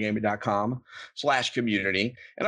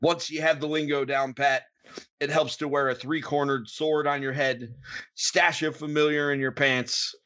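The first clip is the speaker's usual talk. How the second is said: pirate voice. Acted. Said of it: "that was a pretty convincing pirate".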